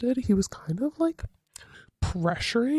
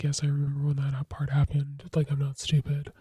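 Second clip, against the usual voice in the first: sarcastic whisper; 3 semitones lower, 3 dB quieter than usual. Retold or imitated. Snapping back at her date.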